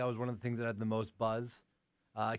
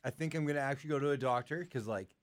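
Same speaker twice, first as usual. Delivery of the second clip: stuffy nose from allergies; talking through a blocked nose; congested. Real, not acted. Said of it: "I'm congested".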